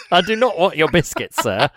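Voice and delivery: hammed-up polite rebuff; mock-proper customer. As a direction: play the formal gent turning down a peddler. Playing customer to the cockney peddler.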